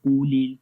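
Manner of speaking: قُلِ with a thick قا, then a thin ال; tajweed demo of قُلِ ال; heavy qaf, light lam. Shown as a demonstration. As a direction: stress the heavy قُ, keep ال light. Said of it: "پہلے قاف موٹا پڑھیں گے".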